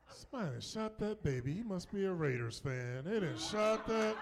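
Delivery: mock outrage. Acts shocked x-ray reaction.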